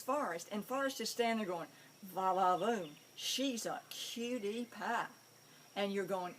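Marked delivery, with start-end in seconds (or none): 2.0-5.1 slow, drawn-out admiring dog voice; flirty dog. Retold or imitated. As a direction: savour the cutie pie slowly.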